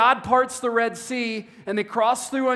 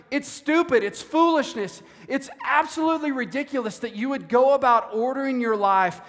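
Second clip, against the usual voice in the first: higher-pitched, incredulous retold scolding; mock exasperation; 4 semitones higher than usual. Preacher voicing James rebuking those who plan without God, exasperated. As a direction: act out disbelief at sheer foolishness.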